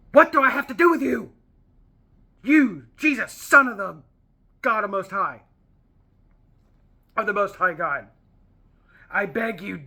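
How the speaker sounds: a pleading demon that bursts out loud, then fades to begging; hammed-up cartoon demon begging for mercy; cartoon villain demon. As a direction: beg like a cornered eighties cartoon villain. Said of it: "like an eighties cartoon villain".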